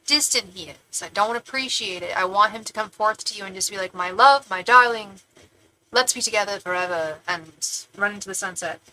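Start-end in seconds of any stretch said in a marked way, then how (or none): 3.9-8.8 put-on British romantic declaration; mock British suitor. Imagining her man professing his love, British accent. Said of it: "I don't know why I made him British".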